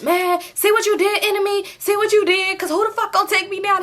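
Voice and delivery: lightly voiced friend teasing; mock friend taunting. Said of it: "So she like".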